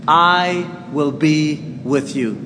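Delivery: soft, slow and gentle; quiet promise. Shown as a demonstration. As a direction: lay the promise down softly. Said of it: "repeats the promise".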